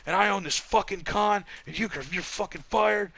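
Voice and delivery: imitating the arrogant sponsor gloating; mock boss rant. Sponsor gloating to the staff, a mock arrogant rant. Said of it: "He's like".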